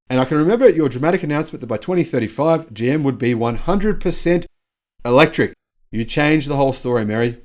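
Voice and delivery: mock-presidential proclamation in own accent; Joe Biden. Host quoting the president to GM's boss, mock-oratorical. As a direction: lightly imitate a speech honouring someone. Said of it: "amplified by U S President Joe Biden".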